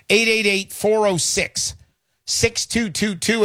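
slow, careful digit-by-digit reading; slow number read. Shown as a demonstration. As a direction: spell the phone number out slowly so they can write it down. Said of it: "Again, eight eight eight".

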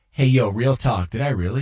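mild mock "real talk"; mock Patty quote. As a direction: quote a buddy with a hint of swagger. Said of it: "Patty's response was".

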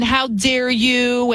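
mock indignation. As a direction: ham up fake offense. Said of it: "it's always about".

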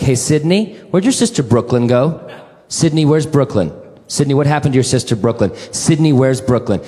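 a mother pressing her small daughter; anxious young mother. Retold or imitated. Mother asking her little girl, mildly anxious. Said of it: "She's like".

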